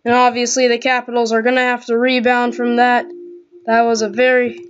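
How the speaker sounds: hockey play-by-play voice; NHL commentator. Pretend. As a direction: call the game like a TV announcer. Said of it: "do my best impression of an N H L commentator".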